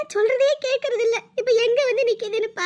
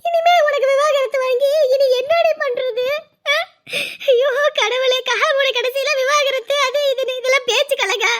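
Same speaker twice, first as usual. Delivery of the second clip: tearful wail; 3 semitones higher than usual. Acted. Mother laments daughter's threatened divorce.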